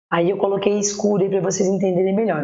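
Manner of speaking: ordinary delivery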